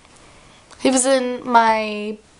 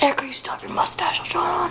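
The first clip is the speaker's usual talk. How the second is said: imitating sister; 6 semitones higher, 5 dB quieter, faster than usual. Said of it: "She tells me the obvious".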